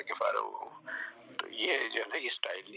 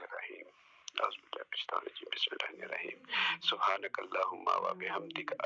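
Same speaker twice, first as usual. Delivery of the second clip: prayer recitation. Acted. Teacher recites prayer for the class to correct, hushed. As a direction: murmur the prayer words devoutly, half under breath.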